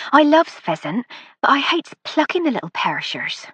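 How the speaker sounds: a homely rural cook, pleased with herself; country dialect. A narrator's reading. Housekeeper Miss Jones speaking.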